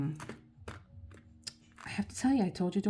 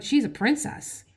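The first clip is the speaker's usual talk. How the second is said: mock husband echo, higher and louder; husband's disbelieving echo; 8 semitones higher, 8 dB louder than usual. Husband repeating her words, mock astonished. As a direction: echo it back as if stunned.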